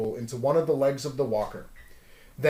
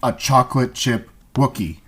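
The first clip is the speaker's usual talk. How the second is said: loud, low, altered punchline; 3 semitones lower, 6 dB louder than usual. Acted. Voice repeats the Wookiee pun to the alien, loud and low. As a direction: press the pun home.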